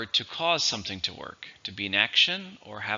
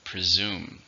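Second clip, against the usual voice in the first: Presume, weight on the final SUME; second-syllable stress; 2 semitones lower than usual. Shown as a demonstration. Teacher models Presume for learners, stress on SUME. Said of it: "stress in the second".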